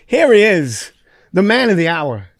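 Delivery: high, loud hammed-up introduction; announcing an arrival. Actor greets the star entering a table read, mock announcement. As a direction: hail the guest of honour, loud and high. Announcing star's entrance, retold.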